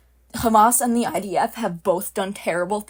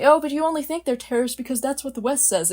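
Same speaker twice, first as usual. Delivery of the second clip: higher, quick mimicked objection; mock objector; 5 semitones higher, faster than usual. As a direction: parrot the objection fast in a higher voice. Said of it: "I hear people say".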